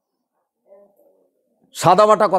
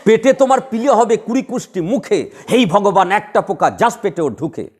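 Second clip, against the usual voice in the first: slow verse curse, with each beat marked; slow rhythmic verse. Shown as a demonstration. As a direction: spell out the rhythm slowly and deliberately. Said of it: "heavy standard বললাম". (ধীরে ছন্দ ধরে আবৃত্তি)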